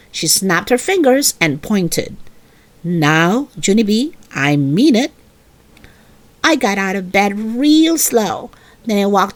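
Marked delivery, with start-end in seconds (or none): 2.8-5.1 low, firm scolding mother voice; stern mother. Acted. Mother refusing Junie B's bedtime wish, low and stern. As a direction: put your foot down like a strict mom.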